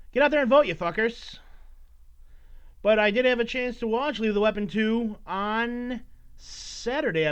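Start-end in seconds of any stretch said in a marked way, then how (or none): 0.1-1.4 rising up to a loud call, then dropping; rally the listeners to go vote; loud exhortation. Real, not acted.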